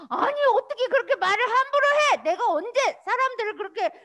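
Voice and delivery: fast, high, loud scolding; imagined Jesus scolding. Acted. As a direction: tell him off sharply. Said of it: "하고 막 혼낼 것 같았는데".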